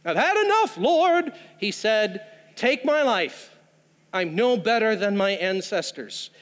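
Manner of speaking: weary, broken prayer of a man giving up; a touch of despair, pleading to die; despairing plea. Retold or imitated. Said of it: "Do you hear it?".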